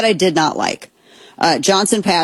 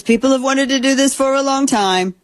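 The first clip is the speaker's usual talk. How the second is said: higher-pitched quote reading; reading aloud; 8 semitones higher than usual. Acted. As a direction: read the quoted line out, pitched up. Reads the president's post aloud.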